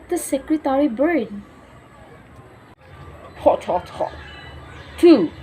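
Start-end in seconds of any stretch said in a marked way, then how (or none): 3.4-5.3 owl voice. Acted. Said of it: "said the owl".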